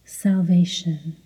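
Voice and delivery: steady, identical repetitions in an even tone; rhythmic mantra. Real, not acted. Meditation guide leading word-by-word repetition in rhythm, mantra voice. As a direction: repeat it like a metronome, unvarying.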